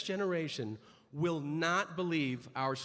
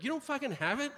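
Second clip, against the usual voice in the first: indignant disbelief; 4 semitones higher, faster than usual. Retold or imitated. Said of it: "I was like".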